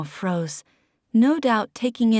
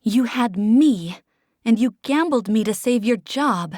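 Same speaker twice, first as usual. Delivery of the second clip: accusing; 2 semitones higher, 4 dB louder than usual. Acted. Desi accusing Oliver of gambling her away, louder. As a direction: throw the betrayal at him. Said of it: "jabbing a finger at him".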